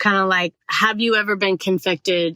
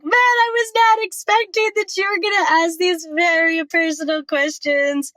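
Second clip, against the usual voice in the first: much higher, loud, in disbelief; a raised, astonished voice; surprised; 10 semitones higher, 3 dB louder than usual. Retold or imitated. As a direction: caught off guard by the questions. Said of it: "I was like".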